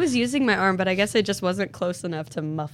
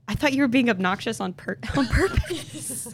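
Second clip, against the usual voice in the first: breaking up with laughter mid-accusation; lightly laughing through a mock accusation; laughing quote; 3 semitones higher than usual. Quoting coworker's accusation, laughing.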